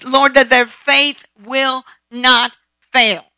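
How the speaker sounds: a slow, earnest prayer, set apart from the preaching; slow prayer demo. Shown as a demonstration. Preacher shows a congregation how to pray, slowly. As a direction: pray it slowly for a brother in faith. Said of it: "When you pray with one another".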